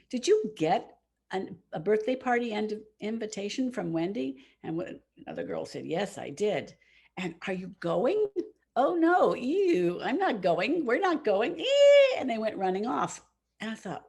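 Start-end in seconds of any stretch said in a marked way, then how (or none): 0.1-8.3 snooty schoolgirls. Retold or imitated. Mean girls quoted. 8.8-11.6 high, loud mock-disgusted "ew"; disgusted schoolgirl. Mocking a classmate who snubs Wendy's party, high and disgusted. 11.6-12.2 put-on girlish squeal. Girls squeal, run off.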